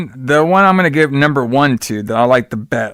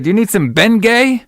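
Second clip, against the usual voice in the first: high, jokey helpful voice; mock helpful; 9 semitones higher, 3 dB louder than usual. Neighbour offers the sick father Bengay, high and joking. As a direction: pitch it up like a goofy neighbour. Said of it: "He's like".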